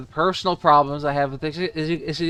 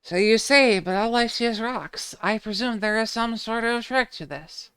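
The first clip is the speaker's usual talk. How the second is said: lightly voiced game characters, higher; 5 semitones higher than usual. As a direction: read the lines a bit higher. Voicing game dialogue.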